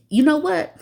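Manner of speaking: sudden high exasperated burst; high-pitched you know what; exasperated outburst. Real, not acted. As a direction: throw it out, fed up. Scolding tweeter.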